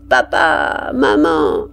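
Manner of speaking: the sergeant mimics the children's cry; mock child cries. Sergeant imitates children crying. (imitation moqueuse d'un cri d'enfant)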